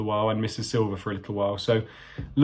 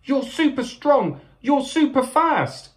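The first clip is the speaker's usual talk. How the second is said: high, squeaky, drawn-out praise; small creature pleading admiringly; excited cry; 12 semitones higher, slower than usual. A narrator's reading. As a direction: cry it high and stretch each compliment. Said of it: "cried Percival".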